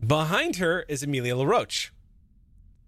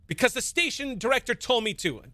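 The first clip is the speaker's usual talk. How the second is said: defensive interjection; 10 semitones higher than usual. Acted. LaRoche cuts in defensively.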